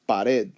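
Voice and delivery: "pared" stressed on the final syllable red. Shown as a demonstration. Teacher showing where voice goes up, "pared" accented at the end. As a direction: lift the voice on the E of "pared". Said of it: "my voice goes up on the E".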